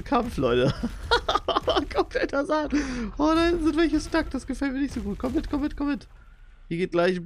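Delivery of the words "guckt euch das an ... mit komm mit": high giggly excited voice; high-pitched gleeful squeal; giddy squeal. Real, not acted. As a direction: squeal along delighted. Giddy reaction, calling dogs.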